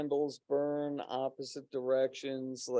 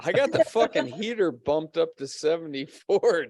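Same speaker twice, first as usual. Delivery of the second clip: laughing; 2 semitones higher, 5 dB louder than usual. Real, not acted. Laughing about the heater.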